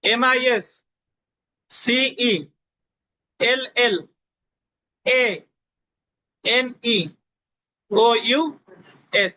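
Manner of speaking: each letter group drawn out very slowly, even pauses. Shown as a demonstration. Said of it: "আবার বলি শুনেন". (আরও ধীরে টেনে টেনে বানান)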